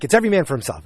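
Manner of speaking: mock yell back at her; mild yell. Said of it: "is what he yelled at her".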